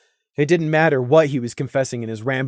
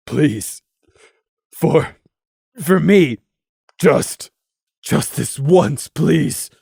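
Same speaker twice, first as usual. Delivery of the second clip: pleading; 4 dB louder, much slower than usual. Acted. Crimson begging.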